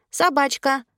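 put-on high-pitched small child voice; childish high exclamation; little boy. A narrator's reading. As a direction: pipe up like a toddler playing doggy. Toddler voiced in story.

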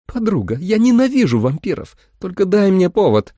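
Holly daring the vampire; tough threat. A narrator's reading. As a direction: dare her to move.

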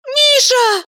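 put-on a girl scared he is leaving; frightened cry. A narrator's reading. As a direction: cry out in alarm. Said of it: "испуганно закричала она".

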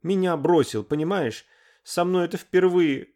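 high, loud, tearful outburst; sobbing. A narrator's reading. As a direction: pour out the hurt through tears. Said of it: "разрыдалась прямо в трубку".

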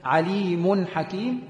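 "عليم حكيم" slowly joined, the meem flowing into the next word; connected recitation demo. Shown as a demonstration. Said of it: "لما أجي أوصلها مثلا".

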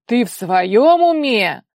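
furious roar. A narrator's reading. Father raging at his daughter, slow loud roar. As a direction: blast her with rage. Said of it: "От его гнева".

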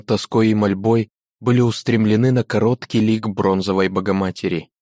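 plain reading voice

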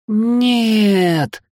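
high, piercing scream of horror; terrified scream. A narrator's reading. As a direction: scream it out in terror. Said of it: "в ужасе кричит сестра". (испуганный крик)

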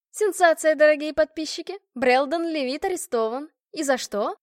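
high, loud breathless report; excited reporter. Acted. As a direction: announce a scoop to subscribers. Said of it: "дама тут же заголосила". (взволнованный крик репортёра)

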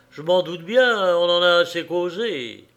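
accused man growling back at the judge; thick, helpless anger. Acted. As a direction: spit it out like a cornered animal. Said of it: "la voix empâtée de colère impuissante, grogna".

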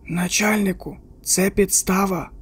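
slow, soft whisper close to the ear. A narrator's reading. Chuck warns Teddy in his ear, a slow soft whisper. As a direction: lean in and breathe it, slow. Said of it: "прошепів на вухо".

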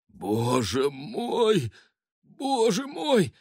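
drawn-out moaning lament, rising to a wail; old man groaning in mock despair. A narrator's reading. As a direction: groan it out long and slow. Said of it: "простонал он".

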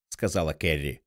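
usual speaking voice

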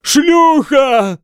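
high, loud wailing howl. A narrator's reading. Mad monk howling the word again. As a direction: howl it out in madness. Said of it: "снова взвыл Годвин".

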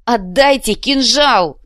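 high, loud, slow demand; desperate scream. Acted. Krokhin demanding the dagger back, desperate scream. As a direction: scream it, drawing it out.

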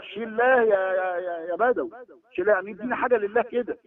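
mock the beggar calling on the saint; imitating a shrine devotee. Preacher mimics a man begging at a shrine, lightly voiced. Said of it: "واحد يقول لك".

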